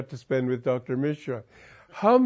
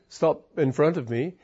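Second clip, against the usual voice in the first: usual speaking voice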